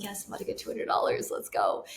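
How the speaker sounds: whispered to herself, thrilled; excited whisper. Retold or imitated. Gleefully whispering to herself over the easy cash, excited whisper. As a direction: hush it like a secret win. Gleeful aside about the money.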